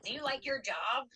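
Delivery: high-pitched confrontational question; mock a freak-out, pitched well up; high, needling imitation of someone losing patience. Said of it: "Anne starts freaking out".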